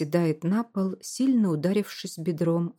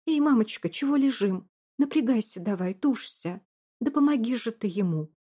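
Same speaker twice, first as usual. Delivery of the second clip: frantic shouting; 4 semitones higher than usual. Acted. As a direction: shout her through the birth, urgent. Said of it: "срывается на крик".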